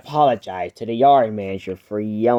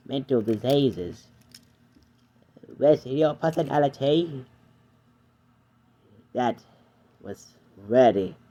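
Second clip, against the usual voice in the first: Edward's voice. Acted. Edward voiced, lower, kind.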